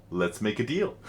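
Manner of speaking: a hint of an Indian shopkeeper's deal-making pitch. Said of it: "In his deep Indian voice".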